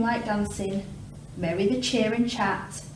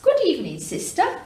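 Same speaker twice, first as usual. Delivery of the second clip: high calls echoing; quacking duck; 9 semitones higher than usual. Acted. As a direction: call into the cave like an echo. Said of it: "She quacked".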